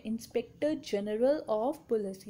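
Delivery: very slow, each word spaced out; teacher reading the full form at a crawl; slow dictation. Shown as a demonstration. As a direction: dictate Inspector General of Police for students to copy. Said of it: "IG की full form क्या होती है?".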